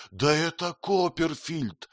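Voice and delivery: happy surprise at seeing his friend; delighted recognition. A narrator's reading. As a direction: greet him like a long-lost friend. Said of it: "с восторгом бросился ко мне".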